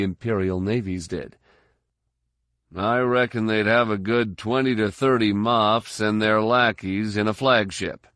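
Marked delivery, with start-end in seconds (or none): 2.8-8.1 lightly voiced trooper's estimate; a hint of a sturdy fighter's voice; soldier sizing up the enemy. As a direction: give a firm battlefield reckoning. Vivut's figure voiced in the story.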